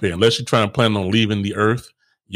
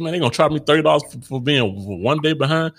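mock indignant; 6 semitones higher than usual. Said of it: "I said".

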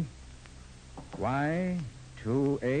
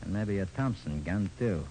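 gangster voice; 3 semitones lower than usual. Acted. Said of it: "in my best gangster voice".

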